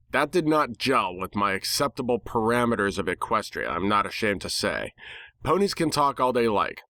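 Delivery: ordinary delivery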